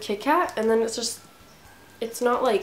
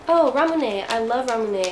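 excited; 3 semitones higher, 5 dB louder than usual. Real, not acted. Recognizes favorite soda.

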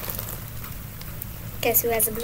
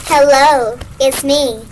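helium voice; 4 dB louder, slower than usual. Real, not acted. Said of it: "Is this my normal voice?".

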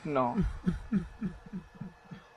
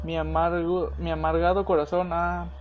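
reading diary pages. Acted. Gamer reads a dead man's diary, somber. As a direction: read the lost man's notes like a lament.

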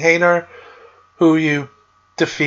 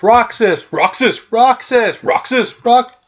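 calling out; 5 semitones higher, slower than usual. Retold or imitated. Voices calling Roxas over and over.

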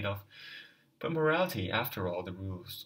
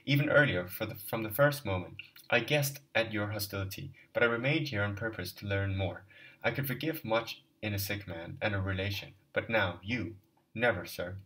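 restrained anger; 3 dB louder than usual. Acted. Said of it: "restraining himself but still breathless".

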